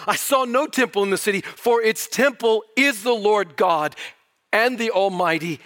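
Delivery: fervent preacher voice; emphatic preaching. Acted. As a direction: proclaim it with rising fervor. Preacher exclaiming quoted verse.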